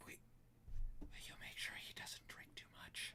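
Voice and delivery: barely audible, hushed, very quiet whisper. Voicing a character who gives a concerned look: whispering. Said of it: "just kinda whispers".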